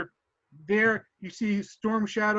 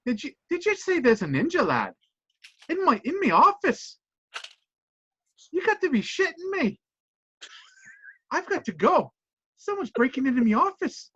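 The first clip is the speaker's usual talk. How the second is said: alarmed; 6 semitones higher than usual. Acted. GM voices McLeod hearing of ninja.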